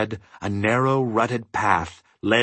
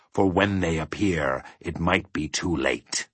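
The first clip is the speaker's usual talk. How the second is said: low, slowing, grave warning; hushed caution; emphatic warning; 3 semitones lower than usual. A narrator's reading. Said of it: "he emphasized".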